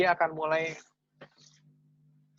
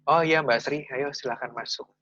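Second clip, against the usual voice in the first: a bit cold. Retold or imitated. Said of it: "tapi agak dingin".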